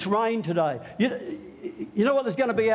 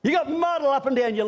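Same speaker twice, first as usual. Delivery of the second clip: annoyed mum; 5 semitones higher than usual. Retold or imitated.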